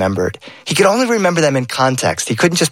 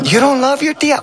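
higher, playful papa voice; papa's voice; 12 semitones higher than usual. Acted. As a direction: lightly voice a teasing father.

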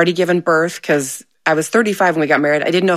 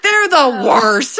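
slow, laughing, higher; laughing verdict; 6 semitones higher, much slower than usual. Retold or imitated. Wife quoting husband about the kids, laughing. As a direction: draw it out while chuckling.

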